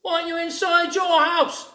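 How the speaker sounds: high, sly jackal question; high, crafty jackal voice. A narrator's reading. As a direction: ask slyly like a crafty jackal. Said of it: "He said".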